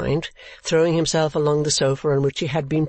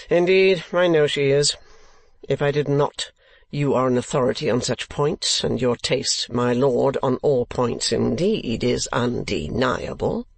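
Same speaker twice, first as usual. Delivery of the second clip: understated sneer. Acted. Ralph flattering his lordly client, faintly sneering. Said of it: "sneering tone in which they were spoken".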